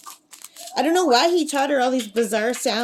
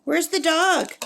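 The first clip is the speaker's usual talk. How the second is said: higher-pitched pet-talk voice; talking sweetly up high to a pet bird; coaxing a pet; 6 semitones higher than usual. Real, not acted. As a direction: coax the bird in a high, sing-song lilt.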